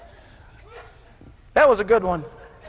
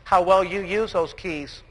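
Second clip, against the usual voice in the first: soft, lowered intimate delivery; hushed sincere close; 3 semitones lower, 5 dB quieter than usual. Acted. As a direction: drop to a near-hush and let it land. Hushed closing reflection.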